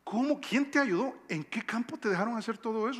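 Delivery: pepper her with amazed questions; surprised. Acted. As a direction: Naomi quizzing Ruth in astonishment. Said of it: "Estás sorprendida".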